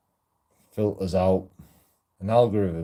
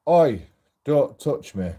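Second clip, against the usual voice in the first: acted protest; 5 semitones higher, 5 dB louder, slower than usual. Woman pushing away a man.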